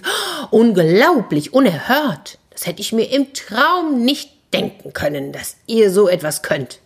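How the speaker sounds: mock-astonished cry, high on the oh; hammed-up surprise to flatter the wizard; feigned shock. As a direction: play up being amazed. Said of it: "stellte sich der Kater erschrocken und rief".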